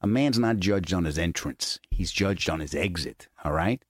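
calm menace from a tough dad; lightly voiced stern father giving life advice. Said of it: "he's like".

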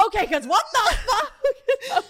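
high, loud, startled outburst with a laugh; shocked yell. Retold or imitated. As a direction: blurt it out in alarm, laughing. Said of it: "She goes".

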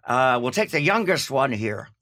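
put-on brisk, lightly Irish-accented cop. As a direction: play the cop with an Irish lilt. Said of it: "That's my English, Irish accent".

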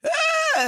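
very high, loud squeal of delight; shriek of joy. Retold or imitated. Just offered a breakfast show, shriek of joy. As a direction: let out a high joyful shriek.

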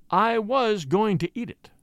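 slow, every word weighted; emphatic slowness. Acted. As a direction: lay each word down deliberately. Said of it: "with emphatic slowness".

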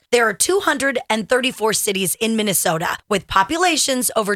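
upbeat insurance ad read. Acted. Host reading an insurance ad to listeners, upbeat ad read. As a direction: sell it like a radio spot.

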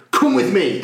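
mildly over-keen imitated helper; a touch of mock gusto; overenthusiastic helper. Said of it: "he was so enthusiastic".

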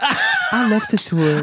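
high, slow, laughing sing-song; high laughing drawl; laughing mock line. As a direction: tease it out through a laugh. Mock diva phrase, laughing.

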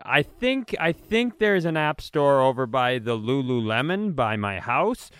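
put-on high doddering old-timer voice; clueless old man. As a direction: play up a confused old man. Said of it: "do you lean into it".

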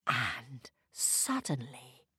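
low, soft, slow build-up; hushed suspense. A narrator's reading. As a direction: draw it out softly before the surprise. Suspense before the star shoots.

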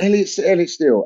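quick, half-listening name check; boss repeating name. Retold or imitated. Boss checking the comedian's name, quick and careless. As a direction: mumble the name back fast. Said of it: "And he went".

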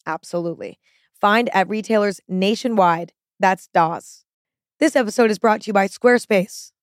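ad read. Acted. Reads a sponsor ad.

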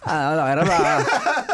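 slow, drawn-out aroy la pa rising high on pa; exaggerated Thai. Shown as a demonstration. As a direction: ham up the question, stretching every syllable. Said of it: "sounds like you just had a seizure".

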